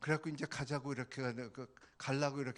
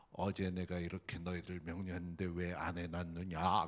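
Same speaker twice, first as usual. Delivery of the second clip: heavy baritone, very low, deep and thick; 8 semitones lower than usual. Retelling what a young woman said in a deep baritone voice. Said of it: "그냥 굵은 목소리로".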